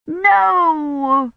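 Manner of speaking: put-on high child's shriek. Agnes shrieks as boys dangle Blackie. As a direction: scream it in panic for the puppy. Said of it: "Agnes shrieked".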